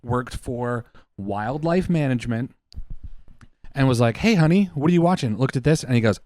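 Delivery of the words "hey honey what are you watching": a lightly higher, chirpy husband calling to his wife; husband voicing. Husband to wife about her video, lightly raised voice. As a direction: play the casual husband asking his wife, a bit higher.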